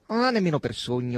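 loud, emphatic denial; brusque exclamation of denial; exclaiming. A narrator's reading. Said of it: "esclamò il rosso".

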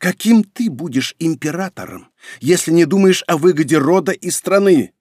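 angry, forced out. A narrator's reading. Emperor challenging his son as heir, angrily forced out. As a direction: force the question out angrily, building in volume. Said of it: "после чего зло процедил".

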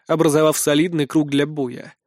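ordinary delivery, nothing marked

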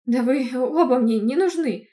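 loud, slow angry shout; angry outburst. Acted. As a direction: yell it at both quarrelling men. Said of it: "разозлилась я". (злой выкрик)

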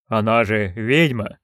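slow, hesitant guard; timid murmur. Acted. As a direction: say it nervously, half under breath. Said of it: "робко промолвил один из них".

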